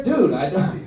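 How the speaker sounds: high, loud protest; exasperated. Retold or imitated. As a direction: plead loudly that you have no idea. Retold exasperation at more slang words.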